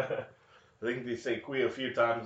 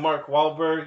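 loud, raised taunt; mock defiance; 6 semitones higher, 8 dB louder, slower than usual. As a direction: throw the name out in a pretend fight. Mock fight with named opponent.

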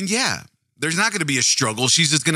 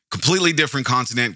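ordinary talk, nothing marked

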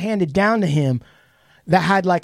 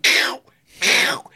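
breathy voiceless "ow, ow" taunt; mock taunting grandpa; much slower than usual. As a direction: tease like a playful old man. Grandpa taunting while holding it away.

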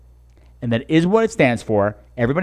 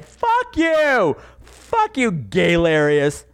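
mock outrage; 2 semitones higher, much slower than usual. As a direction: squeal it in mock offense. Mock outrage, dead room.

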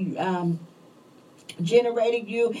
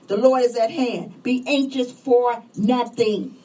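preaching; 2 semitones higher than usual. Acted. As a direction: preach it to the congregation with fire. Preaching at full force.

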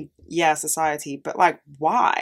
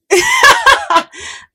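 burst of laughter; 10 dB louder than usual. Real, not acted. Laughs at own illegal job.

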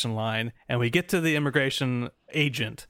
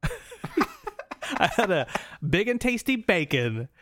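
laughing; 8 semitones higher, slower than usual. Real, not acted. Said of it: "so I had a big and tasty".

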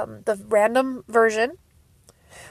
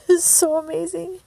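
high, choked-up voice; tearful awe; 6 semitones higher than usual. Real, not acted. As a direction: squeeze it out through happy tears. Still crying happily over comeback.

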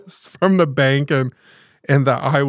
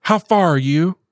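higher, urgent Southern grandma; anxious call to catch her grandson; grandma on the phone about a forgotten wallet, frantic; 5 semitones higher than usual. Retold or imitated. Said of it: "she's frantic".

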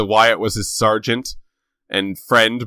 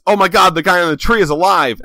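shocked; 7 semitones higher, 3 dB louder, faster than usual. Retold or imitated. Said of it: "The first thing you think is".

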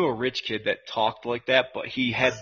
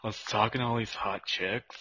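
Kip impression; 5 semitones lower, 7 dB quieter than usual. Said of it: "that's his name, Kip".

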